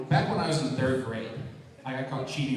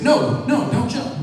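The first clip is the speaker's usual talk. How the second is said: mock plea; 11 semitones higher, 9 dB louder, slower than usual. Pleading with man about to jump.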